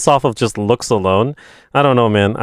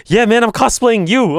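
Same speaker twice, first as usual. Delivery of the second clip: mock friend; 9 semitones higher, 4 dB louder than usual. Retold friend's reply.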